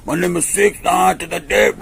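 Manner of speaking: a hammed-up alias, drawn out; mock fake name. To the police, slowly giving a joke fake name.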